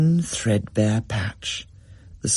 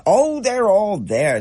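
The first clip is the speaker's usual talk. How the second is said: Dad; 10 semitones higher, 4 dB louder, slower than usual. A narrator's reading. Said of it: "said Dad".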